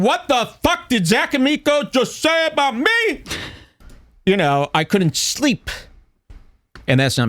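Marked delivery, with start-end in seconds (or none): 0.0-3.2 anguished high-pitched whine. Retold or imitated. Host replaying the line stuck in his head, high mock whine.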